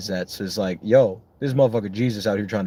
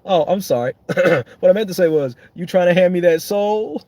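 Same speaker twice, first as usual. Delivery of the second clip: Satan; 8 semitones higher, 5 dB louder than usual. Retold or imitated. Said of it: "He's like".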